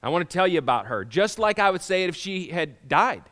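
announcing to everybody. Retold or imitated. Father announcing love for daughter Kelsey to everyone, loud. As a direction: proclaim it to the whole room. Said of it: "decide to say to everybody".

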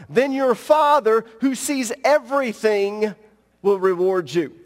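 measured, earnest Bible reading; scripture reading. Acted. Pastor reading Matthew to the congregation, earnest measured reading. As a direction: read Jesus' words with weight.

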